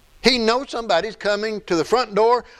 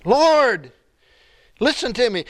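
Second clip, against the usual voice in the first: pleading cry; 3 semitones higher than usual. Retold or imitated. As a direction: call out to be heard, then plead. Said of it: "So David's pleading".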